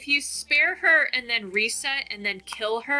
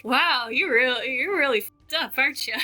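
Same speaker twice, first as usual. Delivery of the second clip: raised-pitch, gleeful mock amazement; almost excited; 3 semitones higher, 3 dB louder than usual. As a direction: act thrilled and appalled at what they did. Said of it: "kind of excited that you actually went back".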